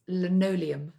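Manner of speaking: "linoleum" taken slowly and carefully; careful pronunciation. Shown as a demonstration. Author naming her tricky word, "linoleum" said slowly and carefully. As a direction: ease gingerly into "linoleum". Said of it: "some words always trip me up".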